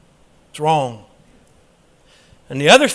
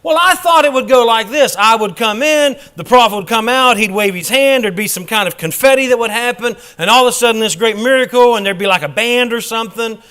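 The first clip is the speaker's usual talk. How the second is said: mock expectation; 3 semitones higher, 3 dB louder than usual. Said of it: "We've got Naaman mindset".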